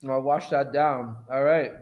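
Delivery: talking with a mouthful; mouth full. Real, not acted. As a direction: still chewing while speaking. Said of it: "I shouldn't talk with my mouth full".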